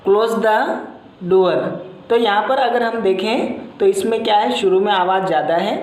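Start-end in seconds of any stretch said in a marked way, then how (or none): 0.0-1.5 "Close the door" with pitch falling on "door". Shown as a demonstration. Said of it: "last में यहाँ पर आवाज़ कम हो जाती है". (गिरती आवाज़ में "Close the door")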